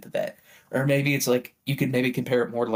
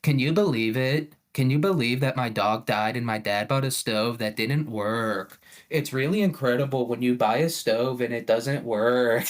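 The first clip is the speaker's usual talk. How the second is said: mock TikTok voice. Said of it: "maybe I should start doing it".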